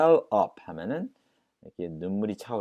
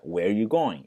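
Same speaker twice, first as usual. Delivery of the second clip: 1 said quickly; 4 dB louder, slower than usual. Shown as a demonstration. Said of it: "빨리 해서".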